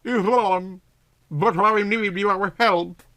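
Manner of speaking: a slow, pleading ask for help; begging. Acted. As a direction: plead with your friend. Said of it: "she begged".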